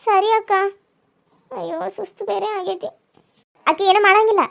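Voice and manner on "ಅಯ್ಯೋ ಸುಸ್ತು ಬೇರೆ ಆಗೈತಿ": weary mutter. Acted. Tired daughter-in-law groans.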